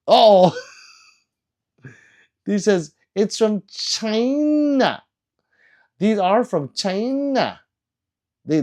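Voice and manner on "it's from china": whispered. Retold or imitated. Reading chat.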